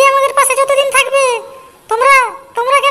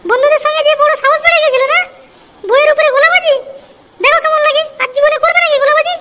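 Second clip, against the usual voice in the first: scolding while beating. Acted.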